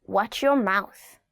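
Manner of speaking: very slow, deliberate, each word weighted; slow warning. Shown as a demonstration. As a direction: say it slowly like a stern parent. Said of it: "demo of warning phrase".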